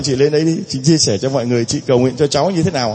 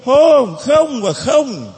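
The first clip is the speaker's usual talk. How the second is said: emphatic no; 8 semitones higher, much slower than usual. Acted. Preacher voicing Jesus' refusal.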